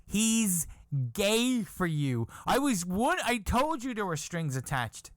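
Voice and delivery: high teasing told-you-so voice; mocking wife. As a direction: drag out gay for you.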